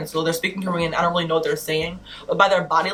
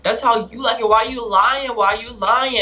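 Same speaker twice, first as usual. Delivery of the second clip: higher, pushy mock protest; raised-voice mimicry of an insistent man; loud imitation; 4 semitones higher, 3 dB louder than usual. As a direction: imitate him arguing too loudly. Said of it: "he's talking so loud".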